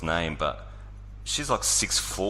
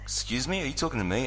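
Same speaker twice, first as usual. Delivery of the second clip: higher-pitched imitation of a taken-aback stranger; affronted stranger; 6 semitones higher than usual. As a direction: lightly mimic someone asking who you mean. Retells offended stranger's reply.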